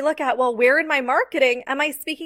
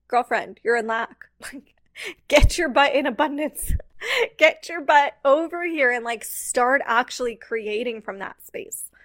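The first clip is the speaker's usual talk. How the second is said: laughing tough love. Retold or imitated. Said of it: "It's like".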